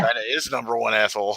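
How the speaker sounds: mock Chinese accent. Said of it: "what was that, Jack".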